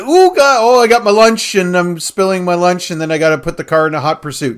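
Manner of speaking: fumbling deputy spilling his lunch, squeaky at first; flustered Enos. Retold or imitated. Deputy fumbling his lunch on a chase, flustered. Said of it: "Enos would be the one fumbling with the".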